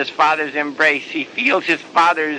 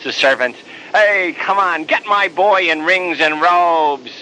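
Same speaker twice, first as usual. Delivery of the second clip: joyful call to the servants, rising louder toward the end; 3 semitones higher than usual. Acted. Father calls to the servants, joyful and loud. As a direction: shout out the orders like a father throwing a party. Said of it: "the father's loud voice calling out".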